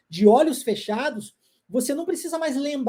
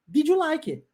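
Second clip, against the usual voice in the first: English question, higher; 6 semitones higher than usual. Shown as a demonstration. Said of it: "a pergunta é".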